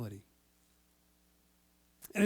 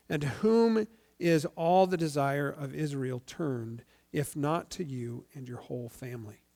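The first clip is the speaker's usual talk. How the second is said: scripture reading. Acted.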